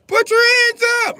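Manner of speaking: high, loud police command; cop's shout. Acted. Police kicking in the door, yelling. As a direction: bark it at the suspect.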